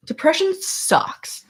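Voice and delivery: high, breathless whisper, slowed down; whispered aside. Real, not acted. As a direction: whisper it like a half-joking confession. Emotional aside after sad story.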